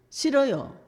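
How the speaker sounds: high, loud petulant refusal; a sulky prophet saying no; mock whiny no; Jonah's refusal.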